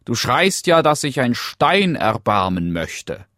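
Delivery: high, loud frog calling to the princess; concerned frog. Acted. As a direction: call out as the curious frog. Frog figure addresses the princess. (besorgter Frosch, hohe, laute Stimme)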